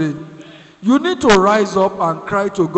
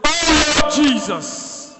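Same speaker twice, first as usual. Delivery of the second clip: pleading prayer; 3 semitones higher than usual. Shown as a demonstration. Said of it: "Let somebody say".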